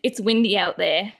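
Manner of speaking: lightly voiced Australian accent. Shown as a demonstration. Host showing how she imagined the hashtag, Australian accent. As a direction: put a touch of Australian accent on it. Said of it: "hashtag in a Australian accent".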